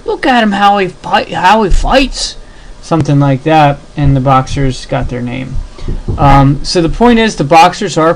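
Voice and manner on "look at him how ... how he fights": much higher mock British accent, slowing on the last words; a hammed-up Brit pointing at a fighter; cartoon British voice, pitched high; British bloke. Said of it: "the British other guy's like".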